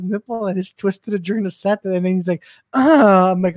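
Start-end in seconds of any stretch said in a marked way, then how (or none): 2.7-3.3 loud mock moan; imitated moan. Comic imitating a friend twisted mid-set, moaning. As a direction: imitate a startled moan, loudly. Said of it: "is that how you moan".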